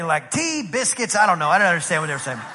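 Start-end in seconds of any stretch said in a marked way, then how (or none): 0.3-1.1 lightly mocked British accent. Preacher imitating British fishermen, mock British accent. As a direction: imitate British small talk. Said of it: "saying what British people say".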